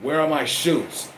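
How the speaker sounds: slow, pressing demand into the mic; mild mock demand for the shoes; demanding Roman. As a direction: lean on where, menacing. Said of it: "grab that microphone and say".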